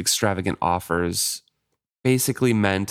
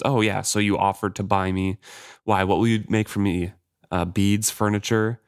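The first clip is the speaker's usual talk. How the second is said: sarcastic. Acted. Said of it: "his words sharp with sarcasm".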